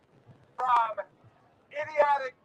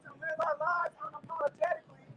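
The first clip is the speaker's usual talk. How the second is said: roaring rallying speech. Real, not acted. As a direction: call and response affirmation. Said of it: "repeat after me".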